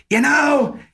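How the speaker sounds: put-on high, loud, slow old lady voice; shout-whisper like an old woman at a concert. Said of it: "my old lady whisper story".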